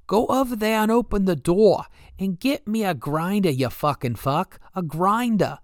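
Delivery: high, loud whiny Boston voice, slowing on the insult; mocking promoter impression. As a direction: ham up the promoter barking an order. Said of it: "ridiculous impersonation of himself".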